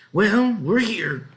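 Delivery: slow, drawn-out arrival; farmer arriving. Acted. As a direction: declare it cheerfully.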